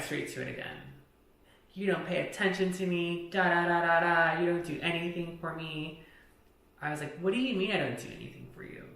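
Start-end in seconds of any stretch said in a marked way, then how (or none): 1.7-6.0 raised, loud imitation of his griping; mock angry whining. Friend restarting the fight in the car, mimicked angry complaint. 7.2-8.8 fast, high-pitched disbelief; retold indignant comeback. Woman answering friend's accusation in the car, retold indignant comeback.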